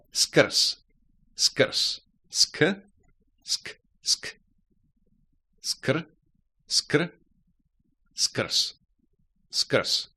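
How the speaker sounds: skrs with the final z devoiced to s; skrz said skrs. Shown as a demonstration. Teacher shows skrz ending in s. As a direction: end skrs on a voiceless s. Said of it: "Z is pronounced S".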